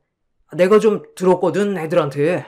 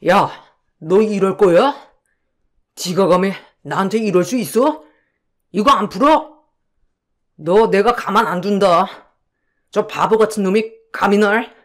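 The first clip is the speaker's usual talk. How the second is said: angry shouting. Acted. Con man cursing his friend during the arrest, furious. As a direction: spit threats at the man who set you up.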